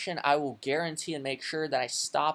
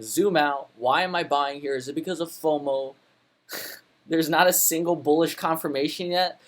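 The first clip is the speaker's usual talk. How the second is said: louder mocking whine of short sellers; mocking perma bears; 6 dB louder than usual. Trader mocking bears who keep shorting, louder scornful whine. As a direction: mimic the doubters with scorn. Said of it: "perma bears ... saying".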